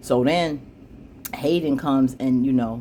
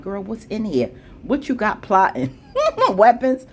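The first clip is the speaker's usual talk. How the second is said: laughing; 8 semitones higher, 4 dB louder than usual. Real, not acted. Laughing at the mystery bag.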